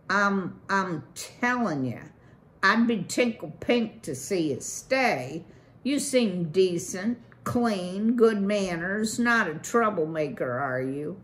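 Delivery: loud, fast-talking swaggering beaver; brash beaver boss. Acted. Beaver boss brags to Valerian about his pond, brash loud pitch. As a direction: sell it like a pushy developer.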